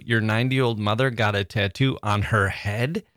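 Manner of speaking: mother lifted, rising end; stress on mother. Shown as a demonstration. Host rereads, stressing mother. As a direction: lean on mother. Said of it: "emphasizing different parts".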